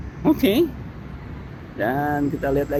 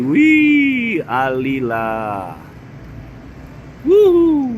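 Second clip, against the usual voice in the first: excited; 4 dB louder, much slower than usual. Real, not acted. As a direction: cheer at the view. Filming a view, thrilled.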